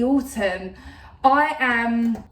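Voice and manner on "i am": odd sudden voice. Real, not acted. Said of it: "I don't know why I'm talking like that".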